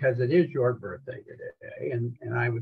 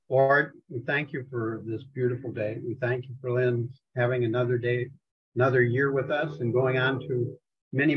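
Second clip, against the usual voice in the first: prayer. Acted. Opens the meeting in prayer.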